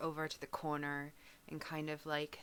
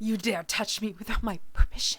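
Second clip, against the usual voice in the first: louder, imperious scolding; haughty rebuke; 5 semitones higher, 9 dB louder than usual. Acted. Zalora scolding the maid who touched her, loud and haughty. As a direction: put the servant in her place.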